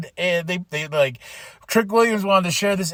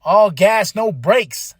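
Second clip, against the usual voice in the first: "All gas" punched louder; corrected catchphrase; 4 semitones higher, 5 dB louder, slower than usual. Real, not acted. Correcting his slip on Fatu's catchphrase, with stress on "All gas". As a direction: hit "All gas" as a fix. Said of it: "Wait, no".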